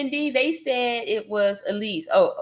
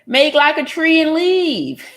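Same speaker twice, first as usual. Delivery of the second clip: laughing; 6 semitones higher, 8 dB louder than usual. Real, not acted. Laughing quip telling trolls leave.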